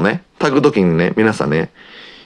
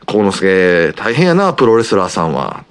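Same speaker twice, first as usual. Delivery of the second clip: imitating grandma. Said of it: "とか".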